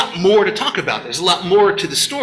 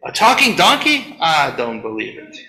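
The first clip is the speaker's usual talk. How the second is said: mock skeptic. Doubters scoffing at the talking donkey, mock disbelief. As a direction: dismiss it like a doubting listener. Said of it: "most people are like".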